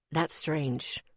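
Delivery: soft, hushed remark; quietly. Acted. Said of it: "Miles said quietly".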